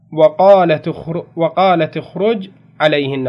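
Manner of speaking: وقالت with the taa given a kasra, slow and clear; slow teaching read of وقالتِ اخرج. Shown as a demonstration. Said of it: "شوفوا بكسر التاء".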